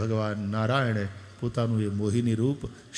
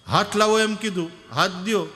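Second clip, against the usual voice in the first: higher, louder eager reassurance; eager calling; 6 semitones higher, 5 dB louder than usual. Retold or imitated. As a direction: call down eagerly to help. Boys urge hand. (ઉત્સાહથી મોટેથી)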